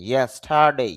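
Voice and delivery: ইয়েস্টারডে as "estade", r dropped; no r sound. Shown as a demonstration. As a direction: say ইয়েস্টারডে without the r. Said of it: "উচ্চারণটা করবো না". (ইয়েস্টারডে, র বাদ দিয়ে)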